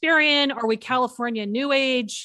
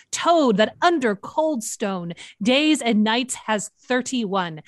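full Shakespeare witches. Acted. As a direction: chant it over the cauldron like a Shakespeare witch. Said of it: "let's do our full Shakespeare".

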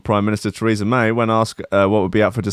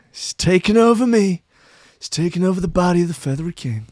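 lightly voiced Trump; 6 semitones higher than usual. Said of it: "channeling Donny T".

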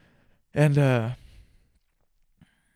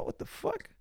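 whispered shock; 10 dB quieter than usual. Retold or imitated. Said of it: "I was like".

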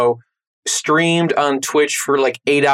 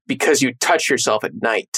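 deadpan; 3 semitones lower than usual. Retold or imitated. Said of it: "He says it straight".

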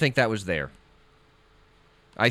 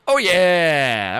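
self-satisfied; 6 semitones higher, 7 dB louder than usual. Real, not acted. Pleased with own joke.

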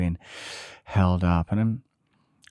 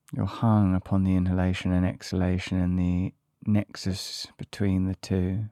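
calm breathing guidance, long pauses between phrases; guided meditation. Acted. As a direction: lead them unhurriedly through each breath.

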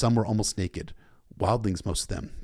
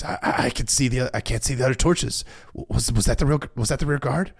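frightened stammer; 4 semitones higher than usual. A narrator's reading.

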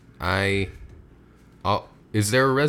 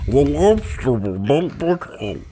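slow, exaggerated mock Brazilian accent; a playful fake Brazilian accent, drawn out; 5 semitones higher, slower than usual. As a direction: ham up a Brazilian official's accent. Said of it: "That's how Brazilians sound".

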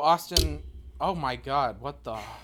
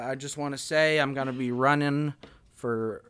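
Bill Clinton impression; 5 dB louder than usual. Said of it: "Oh, Bill Clinton".

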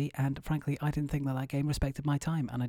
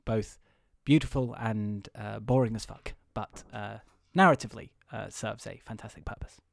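hushed reviewer voice; 4 dB louder than usual. Acted. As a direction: murmur it like a late-night video game show host. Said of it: "I enjoy doing that voice".

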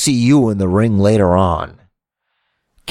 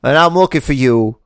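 loud wrestler challenge, lightly voiced; Cesaro; 5 semitones higher, 3 dB louder than usual. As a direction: throw down the challenge. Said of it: "I can't do a Cesaro impression".

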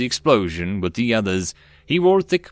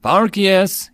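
hissed; 10 semitones higher, 6 dB louder than usual. A narrator's reading. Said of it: "Hitsu hissed".

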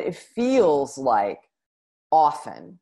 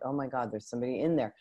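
frightened rush; 4 semitones lower, 8 dB quieter, much faster than usual. Retold or imitated. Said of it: "she starts barking".

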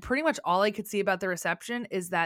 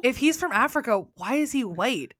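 put-on clueless kid asking; 4 semitones higher, 3 dB louder than usual. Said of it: "And she literally goes".

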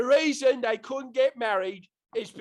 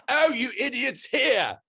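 loud exasperated shout at the crowd; mock shout; 5 semitones higher, 4 dB louder than usual. Shakespeare yells at the dumb drunken audience, mock shouting. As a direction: yell it like he's fed up with idiots.

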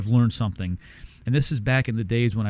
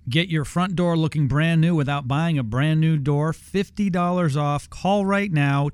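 radio ad read; 3 semitones higher than usual. Acted. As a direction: sell it like a radio spot, pressing each digit.

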